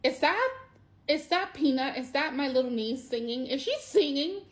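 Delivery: high, rising, amazed questions; reliving hearing her niece sing; disbelieving wonder. Retold or imitated. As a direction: ask it as if you can't believe your ears. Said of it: "And I'm like".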